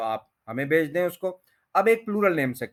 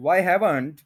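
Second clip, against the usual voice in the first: slow spoken form; much slower than usual. Shown as a demonstration. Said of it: "spoken के साथ भी आप बना सकते हैं".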